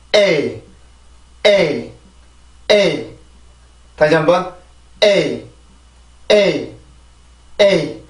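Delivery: "에이" said as one syllable, falling glide; "에이": tense the first vowel, then relax into the glide. Shown as a demonstration. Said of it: "자, 해볼게요". ("에이"를 한 음절로, 뒤는 힘 풀어 내려 발음)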